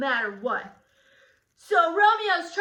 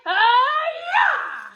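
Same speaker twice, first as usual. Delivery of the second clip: mock stab; 11 semitones higher, 5 dB louder than usual. Acting the stab.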